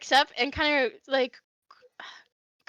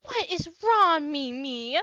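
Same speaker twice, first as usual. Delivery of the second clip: put-on exasperated older lady; 2 semitones higher, slower than usual. Lady walks over to crying Mimi, exasperated. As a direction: draw it out, lightly exasperated. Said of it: "she walks over and she goes".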